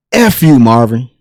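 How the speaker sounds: mild mock-angry retort; retold angry outburst. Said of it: "he gets mad".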